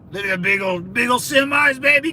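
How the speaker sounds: rising to a loud, high, excited holler; genuinely pumped cheer. Real, not acted. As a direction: hype up the big rigs going by. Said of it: "I get excited".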